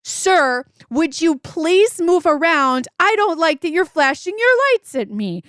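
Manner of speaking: earnest little daughter explaining manners; small girl patiently teaching mom to be polite; child correcting mom. Retold or imitated. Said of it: "She's, she's like".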